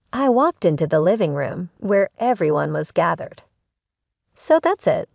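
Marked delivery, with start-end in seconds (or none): 4.3-5.1 sharp confrontation. Acted. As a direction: voice jumps way up, a sharp indignant challenge. Confronting family in living room.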